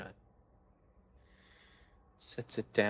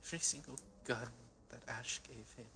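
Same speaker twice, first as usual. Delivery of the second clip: anguished; 4 semitones higher, 11 dB louder than usual. Acted. Grieving character's climax.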